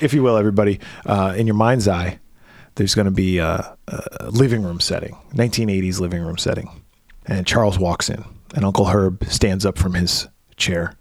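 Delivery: low-pitched stage narration; scene setting. Acted. Sets the scene aloud.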